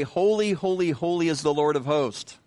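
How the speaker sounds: "Holy, holy, holy" with the first Holy lifted high; quoted seraphim cry, pitch high on the first "Holy", then easing down; emphatic repetition. Retold or imitated. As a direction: proclaim it, hitting the first "Holy" hardest. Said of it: "it's given for emphasis".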